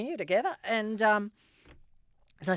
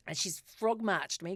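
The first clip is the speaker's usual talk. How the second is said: ordinary talk, nothing marked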